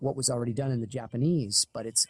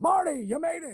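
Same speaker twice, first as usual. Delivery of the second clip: put-on very high-pitched, aged old man character voice. Showing how the character would sound as the old version: old Doc Brown voice. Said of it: "if it was old Doc".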